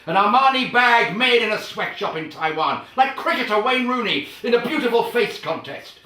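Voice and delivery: high, loud, escalating tirade; indignant ranting; building rant. Real, not acted. Ranting comparisons.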